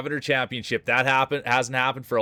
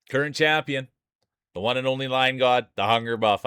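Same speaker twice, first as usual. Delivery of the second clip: ring announcer intro. Acted. Streamer hyping the champion marble to chat, announcer style.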